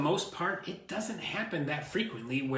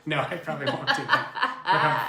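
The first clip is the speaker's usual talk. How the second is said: laughing; 5 dB louder than usual. Real, not acted. Embarrassed after the live-viewer tease.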